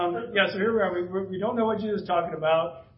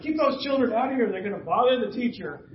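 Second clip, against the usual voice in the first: higher, lightly acted crowd-control order; officious disciple; 5 semitones higher, 3 dB louder than usual. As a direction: shoo them off, a touch bossy. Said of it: "the disciples are like".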